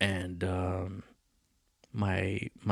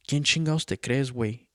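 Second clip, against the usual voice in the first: mock aggressive, higher; lightly voiced drunk father picking a fight; mildly heated Spanish taunt; drunk dad's challenge; 3 semitones higher than usual. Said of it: "And he's like".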